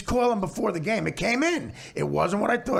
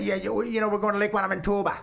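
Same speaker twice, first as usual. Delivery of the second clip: quick mock upper Wisconsin accent; 2 semitones higher, faster than usual. Host mimicking the caller's lake trip, mock Wisconsin accent. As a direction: lightly imitate a Wisconsin caller. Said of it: "trying to do an upper Wisconsin".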